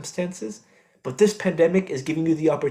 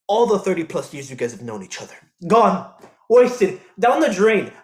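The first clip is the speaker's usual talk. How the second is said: bitter anger; 3 dB louder than usual. Acted. Son listing father's betrayal.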